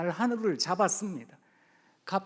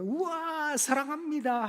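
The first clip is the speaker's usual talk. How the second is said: mildly excited love cry; 7 semitones higher, slower than usual. Retold or imitated. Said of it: "하거든요".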